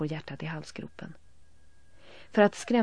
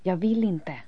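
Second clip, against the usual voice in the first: loud refusal; 3 semitones higher, 7 dB louder than usual. A narrator's reading. Elin refusing loudly.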